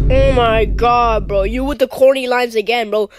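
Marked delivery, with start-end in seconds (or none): 0.1-1.4 slow, loud exasperated groan; drawn-out fed-up sigh of words. Acted. Exasperated at corny lines.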